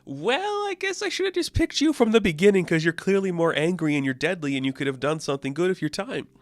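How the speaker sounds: a high, hammed-up god voice; mock Khonshu. Khonshu wishing he'd picked Marlene, in a high mock voice. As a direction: sneer like a jealous deity. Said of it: "where he's like".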